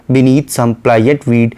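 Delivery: very slow, measured poetic reading; a lightly recited line of poetry; slow poem recitation. Shown as a demonstration. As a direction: draw out each word of the verse.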